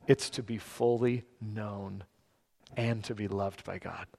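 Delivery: quiet sermon climax with pauses; hushed preaching. Acted. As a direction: let each phrase settle reverently.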